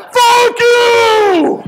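high, loud crying-out shout; exhausted yell. Retold or imitated. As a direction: blow up at him, spent.

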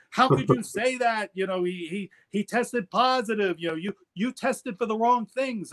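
high, mock-outraged protest; hammed-up indignant German officials. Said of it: "The Germans went ballistic".

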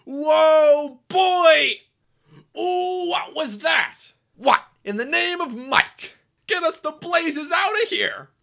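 high, drawn-out startled hollering; comic alarm. Acted. Engine wanting out of there, alarmed holler. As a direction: holler in hammed-up fright.

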